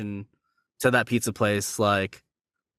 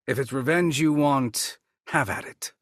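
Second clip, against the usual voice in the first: Shang Tsung voice; 2 semitones higher than usual. Acted. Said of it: "my favorite as a character Shang Tsung line".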